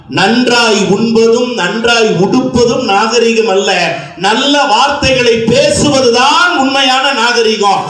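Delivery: slow, measured proverb recital; maxim delivery. Shown as a demonstration. Speaker reciting a moral maxim to the audience, slow. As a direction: lay out the saying slowly and gravely. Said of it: "இங்க சொல்றேங்க".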